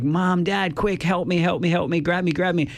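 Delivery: put-on high panicky child voice pleading for help; a frightened kid begging from the bars; scared kid calling. Kid on the monkey bars calling to parents, high and panicky.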